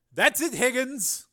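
high, loud, slow warning; stern slow verdict. Acted. Senator ruling the engineer in contempt, stern. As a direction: lay down the law. Carmen losing patience.

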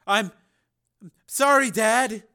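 weak, drugged and slurred; slurred apology. A narrator's reading. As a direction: mumble it, half asleep. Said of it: "His voice was thick and slurred".

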